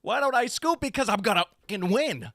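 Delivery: loud, high, defiant answer; defiant retort. Retold or imitated. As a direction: throw his taunt right back at him. Retorting the taunt.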